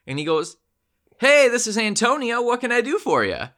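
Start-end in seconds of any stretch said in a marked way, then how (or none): 1.2-3.5 high, loud, hammed-up bad Hispanic accent; a terrible fake Hispanic accent, pitched up. The scammer posing as Antonio, in a bad Hispanic accent. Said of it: "the worst, like, Hispanic type of accent".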